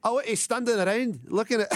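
high mock Scottish banter; put-on Scottish accent. Shown as a demonstration. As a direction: answer in a playful Scottish accent. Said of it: "I can do a Scottish accent".

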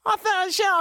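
sudden high-pitched "sure"; high surprised squeak. Real, not acted. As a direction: yelp it in surprise.

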